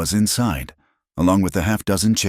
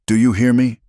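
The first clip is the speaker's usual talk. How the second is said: urgent; 7 semitones higher, 5 dB louder than usual. A narrator's reading. Jacob urgently consoling Clara.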